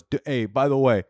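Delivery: put-on a lightly done South African accent; mock South African boyfriend voice, casual. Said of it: "this is my South African accent".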